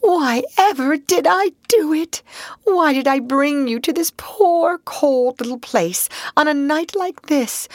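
high, tearful self-reproach; gloomy. Acted. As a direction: lament it, full of regret. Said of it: "his doleful self-reproaches".

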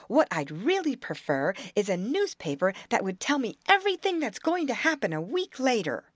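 lightly voiced eager young beaver; a hint of a curious young animal. Brownie Beaver's voice in the tale.

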